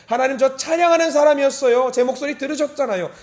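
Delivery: high, loud, insistent prayer; fervent appeal. Acted. Worshipper reminds God of past praise, fervent appeal. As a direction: call out to God with bold pride.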